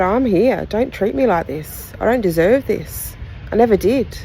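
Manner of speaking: a hurt daughter begging her father to stop; hurt pleading. Retold or imitated. Retold plea to abusive father.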